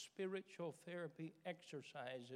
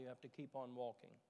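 quiet emphasis; 4 semitones lower, 6 dB quieter than usual. Shown as a demonstration. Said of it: "Make a note of it".

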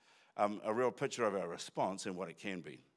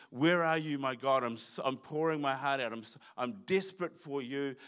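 higher and louder, a pleading cry to God; anguished plea; 3 semitones higher, 3 dB louder than usual. Retold or imitated. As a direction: cry out to God from the cross, desperate. Voicing Jesus crying on cross.

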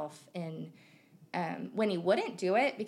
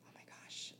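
barely voiced, whispered inner thought; hushed whisper, recalling a private shock; stunned whisper; 18 dB quieter than usual. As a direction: whisper it to yourself in disbelief. Retelling her stunned private thought.

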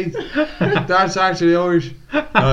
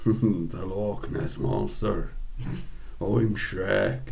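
much lower, softer, slow slightly Irish Shrek; 11 semitones lower, 11 dB quieter, much slower than usual. Acted. Shrek to the saloon gunslinger, low slight Irish accent. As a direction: rumble it low and slow in a faint Irish lilt. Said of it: "my slightly Irish voice".

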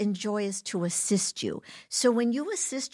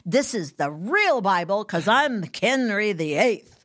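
mock king; 4 dB louder than usual. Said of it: "on that Bible and said".

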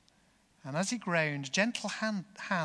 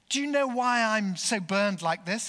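raised, louder anxious question; agitated questioning; 6 semitones higher, 6 dB louder than usual. Acted. Burned man questioning his carers, agitated. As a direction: press them with rising agitation.

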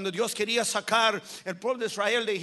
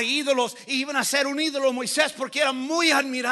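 driving preaching; 4 semitones higher, 7 dB louder than usual. Real, not acted. Preaches at full force.

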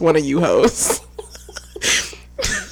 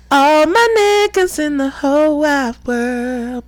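segment title announce; 5 semitones higher than usual. Shown as a demonstration. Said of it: "is the segment".

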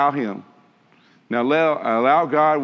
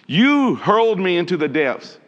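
raised, preacherly Bible reading; emphatic scripture reading; 3 semitones higher than usual. Acted. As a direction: declaim the verse to a congregation. Reads scripture aloud to congregation.

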